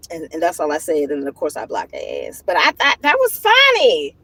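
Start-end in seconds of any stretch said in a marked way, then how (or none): 2.5-4.2 higher, amused retelling; giggly disbelief. Real, not acted. Telling viewers about his insults, high and amused. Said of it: "it had me cracking up laughing".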